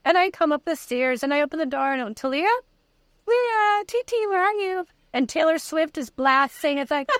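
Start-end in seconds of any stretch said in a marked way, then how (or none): 2.1-4.9 calling out. Retold or imitated. Calling through the house.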